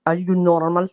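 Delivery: put-on light Polish-accented question; hint of Polish accent, rising ending; imitated Polish accent. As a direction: mimic a Polish speaker asking. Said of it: "He would have said it's the same".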